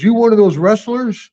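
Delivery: a hint of a rude clerk brushing off a guest; gruff hotel clerk. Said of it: "And the guy goes".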